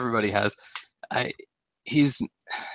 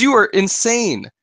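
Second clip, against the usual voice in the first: slow, higher, stunned disbelief; incredulous; 8 semitones higher, 3 dB louder, slower than usual. Retold or imitated. Man telling the hooker she's crazy, slow incredulous. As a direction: draw it out like you can't believe the price. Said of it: "He goes".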